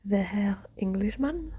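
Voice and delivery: put-on whispered German-accented question rising at the end. Innkeeper greeting the Englishman in a whispered German accent. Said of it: "I'm not doing a German accent ever again".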